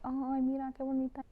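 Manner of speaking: high, bright gush of admiration; gushing over plant. Retold or imitated. Admiring her houseplant mid-video, high cooing gush. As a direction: coo over a pretty plant. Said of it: "and I'm like".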